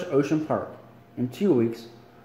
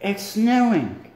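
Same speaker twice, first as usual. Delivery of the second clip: excited; 9 semitones higher, much slower than usual. Acted. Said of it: "Mike said".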